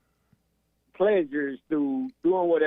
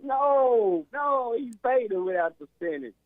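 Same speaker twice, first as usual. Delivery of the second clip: emphatic insistence; 9 semitones higher than usual. Real, not acted. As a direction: jump in to overrule him.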